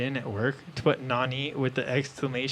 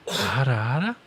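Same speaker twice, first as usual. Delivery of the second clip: teasing ara ara. Shown as a demonstration. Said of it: "I was expecting Alex to do it, uh, like this".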